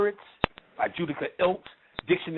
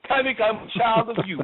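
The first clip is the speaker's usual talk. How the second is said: higher-pitched mimicking of an eager follower; mock devotee; 6 semitones higher than usual. Follower announcing themselves to Panic, mock-eager. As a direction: put on a high follower's voice.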